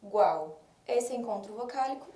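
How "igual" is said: "igual" broken into syllables: i-gual; teacher splitting "igual" into i-gual; split into syllables. Shown as a demonstration. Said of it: "Separo em sílabas".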